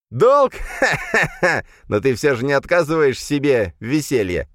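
high, scornful burst of laughter; mocking laughter. The darkness laughs at the elf's talk of duty, scornful. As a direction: laugh in his face.

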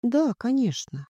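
unbothered, mildly soothing assent; calm reply. A narrator's reading. Daughter answering her angry mother, calm. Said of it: "спокойно ответила я".

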